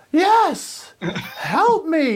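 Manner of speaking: high, squeaky put-on pug, laughing through it. Pug stuck in window well calling to the man, high squeaky voice. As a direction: play the trapped little dog begging for help. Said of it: "And he goes".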